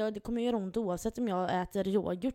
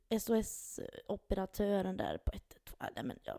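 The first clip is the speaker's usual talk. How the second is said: whisper; 5 dB quieter than usual. Real, not acted. Whispered apology aside.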